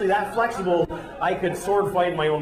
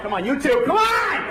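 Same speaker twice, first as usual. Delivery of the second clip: much higher, louder shout; shouting leader; 6 semitones higher, 3 dB louder than usual. Pretend. Leader shouting at two holdouts at gate, loud. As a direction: yell at the stragglers to join. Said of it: "airport leader shouting".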